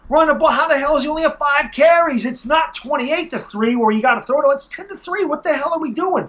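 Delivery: high-pitched, exasperated rant; retold screaming. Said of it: "that's why I was screaming".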